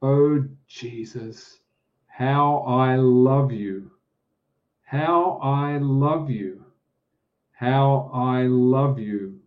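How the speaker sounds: slow, fervent ringing exclamation, each love you drawn out; a grandmother preacher crying out her love for Jesus from the pulpit, in a slow ringing voice. Retold or imitated. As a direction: lift it toward heaven slowly, like a preacher's cry of devotion. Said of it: "she exclaims in a ringing voice".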